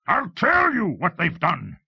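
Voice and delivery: high, loud, enraged shriek; drawn-out furious outburst. Acted. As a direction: shriek back at her in fury. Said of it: "Lars shrieked".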